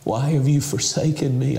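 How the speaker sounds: a mild anguished cry from the cross; lightly voiced plea of abandonment. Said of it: "He heard him cry".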